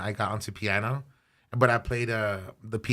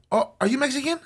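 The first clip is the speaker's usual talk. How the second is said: high-pitched, excited imitation of strangers; super excited; 3 dB louder than usual. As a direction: gush with delighted recognition, much higher. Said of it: "they were super excited".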